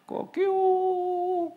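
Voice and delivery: high, drawn-out cock-a-doodle-doo; rooster crow. Shown as a demonstration. Preacher imitating the rooster that woke Peter, high drawn-out crow. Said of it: "이게 닭소리가 맞는지 모르겠어요".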